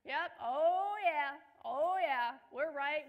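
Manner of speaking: mock gloating. Mocking a parent proven right.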